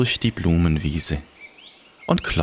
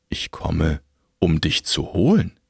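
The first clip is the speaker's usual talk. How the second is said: grim reaper voice; 4 semitones lower than usual. Acted. Death voice.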